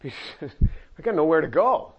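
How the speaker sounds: slow, drawn-out helpless admission; slow resigned Peter. Pretend. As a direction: say it slowly like you've run out of options. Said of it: "Peter's answer voiced".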